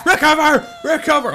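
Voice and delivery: high, urgent cry; high-pitched panicked order; frantic yelling. Pretend. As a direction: yell the command high and desperate. Urging falling character to recover.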